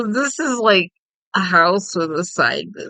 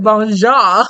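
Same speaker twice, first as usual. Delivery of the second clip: laughing; 4 semitones higher, 8 dB louder than usual. Real, not acted. Giggling at own pronunciation.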